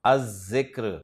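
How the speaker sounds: अज़्जिक्र said az-zikr with a doubled z; no l in अज़्जिक्र, lean on the double z; अज़्जिक्र: lam swallowed into a long z; Arabic article demo. Shown as a demonstration. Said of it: "तो लाम नहीं पढ़ा जाएगा".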